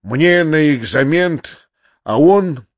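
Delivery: slow, rising lament; plaintive voice. A narrator's reading. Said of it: "отвечал Гаврила плачевным голосом". (плачевным голосом)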